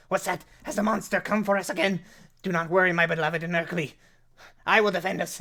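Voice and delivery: high, loud, fast heroic bluster; crazed defender. Acted. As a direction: puff up and vow to fight the monster. Other gnome vows defence.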